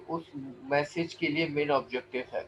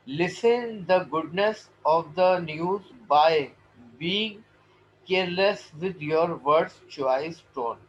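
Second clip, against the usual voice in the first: very slow, deliberate English reading; formal read-aloud; 3 dB louder, much slower than usual. Acted. Teacher reading good-news advice to students, slow deliberate read-aloud. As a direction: spell out the passage phrase by phrase, unhurried.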